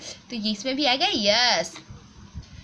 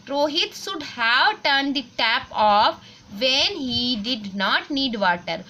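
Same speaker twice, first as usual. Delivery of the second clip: put-on slow, careful textbook reading for children; reading aloud slowly; much slower than usual. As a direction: read each word clearly for the class. Reads the exercise sentence. (बच्चों के लिए धीरे-धीरे पढ़ना)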